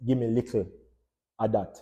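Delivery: "little" with a back k sound for the t; Jamaican Creole "little". Shown as a demonstration. Teacher quoting Jamaican speech, "little" as "likl". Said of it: "when you hear Jamaican say".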